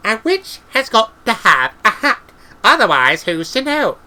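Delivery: high character voice for Granny; insistent witch. A narrator's reading. Granny defending her need for a hat, insistent.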